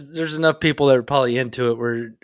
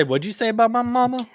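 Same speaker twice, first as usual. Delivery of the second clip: mock offended; 8 semitones higher than usual. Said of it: "I was about to say".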